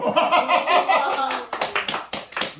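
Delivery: long, high peal of laughter; real laugh. Real, not acted. Pastor amused by child's one-word answer, laughing hard. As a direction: crack up and keep laughing.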